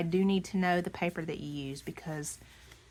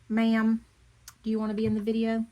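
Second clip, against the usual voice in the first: higher, louder coaxing voice to the pet; pet talk; 4 semitones higher, 8 dB louder, faster than usual. Real, not acted. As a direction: sweet-talk the dog into the video. Talking to her pet.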